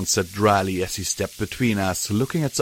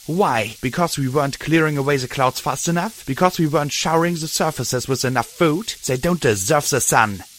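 higher, heated accusing shout; 4 semitones higher than usual. Acted. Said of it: "Dusk shouted".

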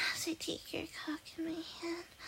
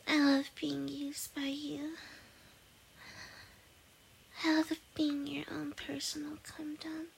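pillow talk. Acted. Soft afterglow, saying good night.

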